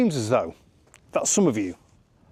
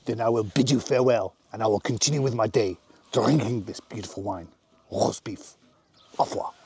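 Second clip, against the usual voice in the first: put-on French accent; 3 semitones lower than usual. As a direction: bid a haughty farewell in a French accent. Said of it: "French accent".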